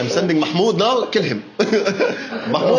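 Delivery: light mock sheikh, laughing; half-voiced despot sending a man; roaring tyrant king. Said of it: "this is so racist".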